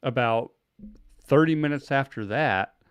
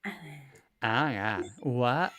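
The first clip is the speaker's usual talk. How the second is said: put-on catty white girl voice; 4 dB quieter than usual. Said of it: "That's my typical voice for anybody".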